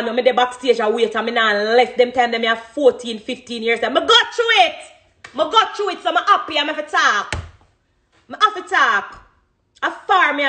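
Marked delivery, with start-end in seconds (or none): 3.9-10.5 laughing through the words, pitched much higher; real laughter breaking into the words; giggling while talking about hardship. Real, not acted. Laughing through emotional thanks.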